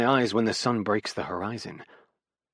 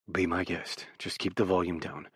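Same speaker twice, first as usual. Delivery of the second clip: resigned; 4 semitones lower, 7 dB quieter than usual. A narrator's reading. Resigned reply after a sigh.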